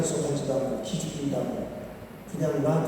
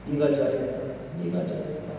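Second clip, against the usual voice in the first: soothing father; 5 semitones lower, 4 dB quieter than usual. Retold or imitated. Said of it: "아들을 한껏 달래고 위로합니다".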